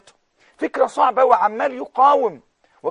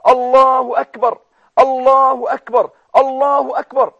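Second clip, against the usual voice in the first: slow, loud, ringing Allahu akbar; joyful takbir; 3 semitones higher, 6 dB louder than usual. Retold or imitated. Preacher voicing the Prophet's joyful takbir to a companion. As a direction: proclaim it like a joyful cry.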